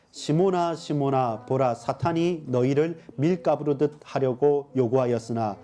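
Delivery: measured, even-toned recitation of a Bible verse; scripture reading. Real, not acted. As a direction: read the verse aloud steadily, as if leading a congregation. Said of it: "같이 한번 읽어보겠습니다". (성경 구절을 또박또박 낭독하는 어조)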